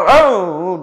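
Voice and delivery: mock startled "au" of a sleeper; imitated waking noise. Preacher mimics a dozing worshipper jumping up for prayer, mock startled noise.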